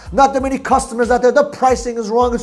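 droning singsong list of gripes on one held pitch; mock complaining. Sales coach imitating salespeople who complain about everything, droning mock complaint. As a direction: imitate an endless whine, each gripe on the same note.

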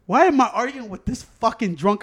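exasperated. Retold or imitated. Driver asks himself why he argues with a drunk, exasperated. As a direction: demand it of yourself in exasperation. Retold thought, repeated louder.

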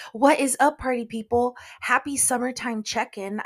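high, loud kindergarten-morning greeting; sing-song greeting. Real, not acted. To party people listening, a high cheerful morning greeting. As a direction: greet them like a kindergarten teacher. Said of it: "my kindergarten morning woke song".

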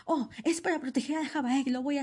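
high, bright mock-innocent voice; naive heroine. Soa falling for the mother-in-law's plan, mock naive voice. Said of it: "y ella así de".

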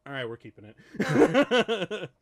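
loud, drawn-out mock decision; emphatic retold verdict. Acting out delighted film-makers' decision.

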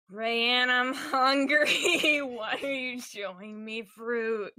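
slow whiny complaint, laughing through it. Acted. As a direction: whine like a hungry kid. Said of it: "He makes a whiny voice".

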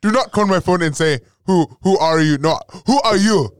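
loud, high mock outburst at the phone; mock shout. Daughter yelling at dad who answers the phone oddly, loud mock outrage.

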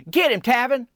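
high, eager Cheryl calling out Tavin's name; Cheryl's voice. Retold or imitated. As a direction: lift the voice up high to play a keen Cheryl. Narrator voices Cheryl urging him.

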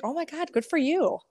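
high, sugary mock-surprised girl voice; gushing mean girl. Old high school bully greeting Leah in her salon, high mock gush. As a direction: imitate the fake-sweet high school bully.

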